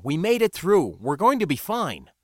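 loud, high, insistent reassurance; assuring. A narrator's reading. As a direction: lift the voice to convince frightened companions. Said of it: "I assured them".

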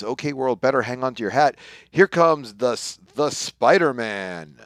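a hammed-up heroic boast; grand hero announcement. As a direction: announce yourself like a circus act. Reading hero's grand boast.

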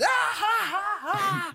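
high, shouted stage laugh; mock guffaw. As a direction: force out spaced, high ha-has. Acting clacker laughing through tragedy.

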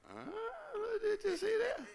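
high, loud, amazed voice; amazed Jesus. Retold or imitated. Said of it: "he went".

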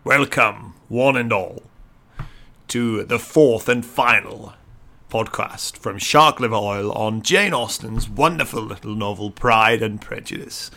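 slow grand posh announcer. Acted. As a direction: welcome them like a plummy host. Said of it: "It's time for my posh voice".

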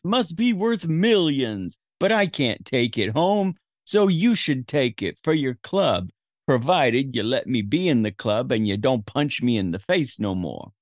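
lightly voiced old-time movie gangster; a hint of a tough guy; cartoon gangster. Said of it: "he's talking like a cartoon gangster".

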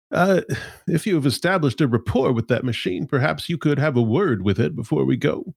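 lightly voiced formal machine; prim, courteous AI speaking up; polite robot voice. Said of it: "but they say".

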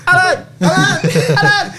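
shrill piercing squeal of the name; prairie dog meme. Retold or imitated. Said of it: "The prairie dog just go".

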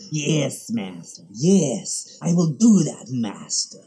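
servile hunchback, grovelling yes master; hunchback assistant. Retold or imitated. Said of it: "like, the Frankenstein movie".

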